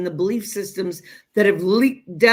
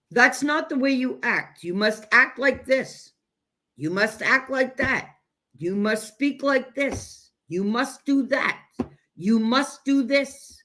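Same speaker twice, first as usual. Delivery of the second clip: higher, slow, drawn-out list of orders; mock rule-giver; 5 semitones higher, slower than usual. Elder dictating how a child must behave, mock prescriptive. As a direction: lay down each rule like a controlling parent. Voices controlling elders' rules.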